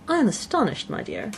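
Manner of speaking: high, fluttery indignant mother; the wife, put out and fussing; indignant Mrs Bennet. A narrator's reading. Wife scolding her husband, high and fluttery.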